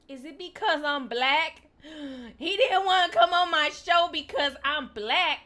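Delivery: put-on Ebonics, loud in bursts; animated mock-indignant Ebonics; Ebonics accent. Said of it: "that's a good accent".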